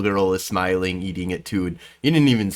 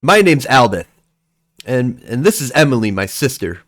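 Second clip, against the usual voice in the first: put-on slightly raised, cocky kid voice; boy making a mild threat; lightly voiced little boy; 3 semitones higher, 4 dB louder than usual. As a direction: put on a hint of a tough little brother. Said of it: "he looks over at you and he goes".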